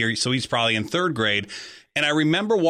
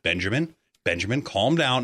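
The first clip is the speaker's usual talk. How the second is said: very calm voice. Retold or imitated. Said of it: "with a very calm voice saying".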